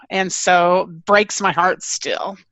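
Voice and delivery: slow, welling up with emotion; real emotion held back, slowing down; choked up. Real, not acted. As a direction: speak as the memory gets to you. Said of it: "I'm getting a little emotional".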